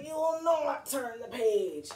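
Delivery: sustained, effortful storybook voice; straining effort. Acted. Grover pulls the knotted rope together, straining. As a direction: stretch it out as if tugging a rope.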